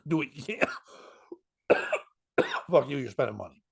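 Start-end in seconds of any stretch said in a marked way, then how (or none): 0.1-0.7 a whispered mock pep talk. Mocking the booker's ask to the bikers, whispered. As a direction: whisper it like a sly nudge. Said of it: "Not like".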